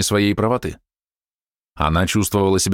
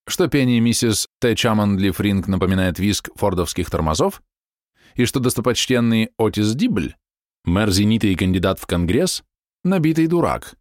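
plain reading voice

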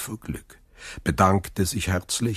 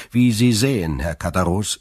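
understated chilly reply; cold; 3 semitones higher, 4 dB louder than usual. A narrator's reading. Dantès answers the neighbour in the door, coldly. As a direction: answer with a touch of coolness. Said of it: "sagte Dantès kalt".

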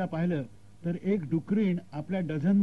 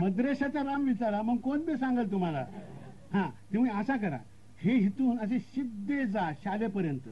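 rustic direction-giver; 4 semitones higher than usual. Acted. Rustic local gives directions.

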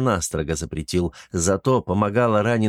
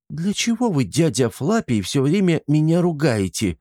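offended; 7 semitones higher than usual. Acted. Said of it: "обиделась рыжая".

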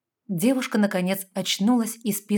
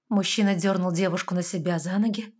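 ordinary delivery, nothing marked

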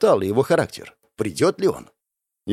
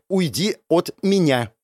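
said through teeth; 4 semitones higher than usual. Acted. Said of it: "процедила Линет".

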